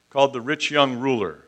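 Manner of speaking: put-on rich and young each given emphasis; "rich young ruler" with weight on both rich and young; stress on RICH and YOUNG. Shown as a demonstration. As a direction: lean on the words "rich" and "young". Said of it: "Emphasis on the word rich".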